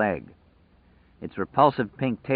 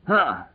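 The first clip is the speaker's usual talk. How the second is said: short grunt of effort; 8 semitones higher than usual. A narrator's reading. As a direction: grunt as you swing. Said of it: "Lloyd grunted".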